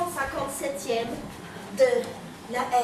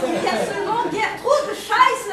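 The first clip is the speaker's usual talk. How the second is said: mock German accent; 5 semitones higher than usual. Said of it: "Tu ne parles pas allemand".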